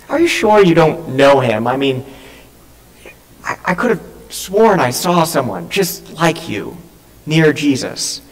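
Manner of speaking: mildly sceptical, with hesitant pauses; doubtful questioning. Acted. Bystander questions Peter about being near Jesus, doubtful probing. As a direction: press gently, as if puzzling it out.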